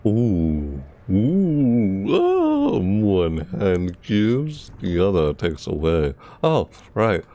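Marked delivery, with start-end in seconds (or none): 0.0-6.1 Moira. Retold or imitated. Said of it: "I like playing Moira".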